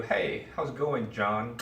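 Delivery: John followed by a tongue click; click after name. Pretend. Everyone greets an imagined John, casual with a click after John. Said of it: "you have a click".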